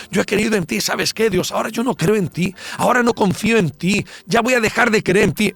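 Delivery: mock lament rising into renunciation; imagined complaint to God. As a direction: act out someone protesting to God. Acted bitter complaint to God.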